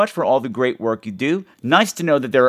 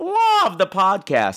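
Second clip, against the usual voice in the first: put-on, every word punched emphatically, pitched up; 7 semitones higher than usual. A podcast host reads a listener's message written in all caps. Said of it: "So that's why I said it like that".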